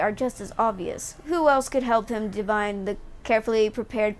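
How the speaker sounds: measured narrator voice reading the scene; game dialogue read. Acted. Streamer reading the tribunal scene aloud, measured and formal. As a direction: read the Inquisitor's charges like a story.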